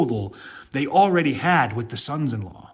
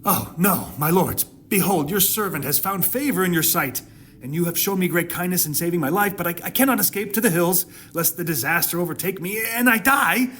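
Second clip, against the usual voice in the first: desperate pleading Lot; 4 semitones higher than usual. Acted. Lot begging the angels to let him flee to the little city, rising panicky plea. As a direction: voice climbing higher and higher in panic. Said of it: "And Lot said to them".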